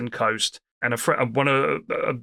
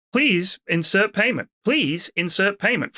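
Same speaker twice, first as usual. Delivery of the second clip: a flat, slow, slightly higher machine voice, repeating itself; robotic machine voice; 5 semitones higher than usual. Retold or imitated. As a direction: lightly mimic a nagging payment machine. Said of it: "the machine was just going".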